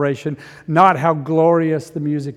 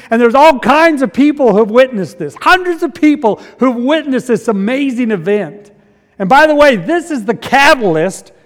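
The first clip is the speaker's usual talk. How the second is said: higher, emphatic preacher delivery; impassioned preaching; 7 semitones higher, 10 dB louder than usual. Real, not acted. Preacher tells the crowd of the amazing event, impassioned preaching. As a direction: preach it with rising excitement.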